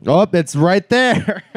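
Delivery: high, slow mock exclamation; mock surprise. Mocking characters looking around for shark, mock surprise. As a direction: draw out the obvious discovery.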